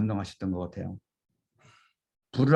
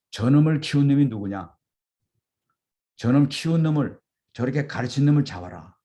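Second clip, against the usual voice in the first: higher, louder furious yell; the furious crowd demanding the teacher be seized, shouting; angry crowd shout; 4 semitones higher, 4 dB louder than usual. Retold or imitated. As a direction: bark it like an enraged mob. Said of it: "화가 더 났어요".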